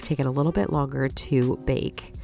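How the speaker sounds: stuffy, allergy-blocked nasal voice; nasally voice. Real, not acted. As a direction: talk through a blocked nose. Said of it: "apologize for my nasally voice here".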